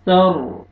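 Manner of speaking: सर ending on a heavy, full r; full raa. Shown as a demonstration. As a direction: thicken the final r of सर. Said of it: "रा को आपने पुर करना है". (सर में रा को पुर करके)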